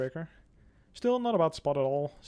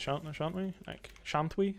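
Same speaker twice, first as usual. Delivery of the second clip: a mock Shakespearean English accent, softer, with a lifted "shan't we"; old-timey English accent; 2 semitones higher, 4 dB quieter, slower than usual. Gamer jokingly slips into a mock Shakespearean English accent. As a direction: put on a fake olde English accent for "shan't we". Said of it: "I don't know where that accent".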